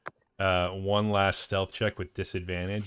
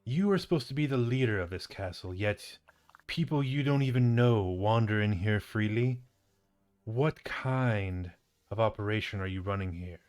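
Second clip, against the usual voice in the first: scolding drow; 3 semitones higher, 4 dB louder than usual. Acted. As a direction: dress down a slack underling. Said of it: "The drow looks at the bugbear and says".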